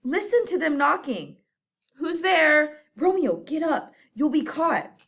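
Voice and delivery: high, hurried and alarmed; flustered friar torn between door and Romeo; frantic whispers and calls to the door; panicked urgency. Acted.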